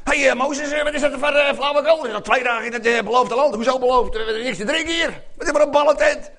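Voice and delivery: irritated grumbling at a leader; grumpy. Acted. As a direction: grumble like a fed-up follower. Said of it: "ze willen een beetje zagrijnig".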